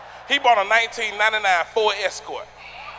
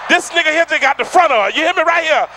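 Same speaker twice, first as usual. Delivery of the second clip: loud roasting call-out; shouting; 4 semitones higher, 4 dB louder than usual. Real, not acted. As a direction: call him out loudly. Roasting audience member.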